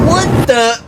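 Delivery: high startled yell; surprised yell. Acted. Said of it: "he yelled".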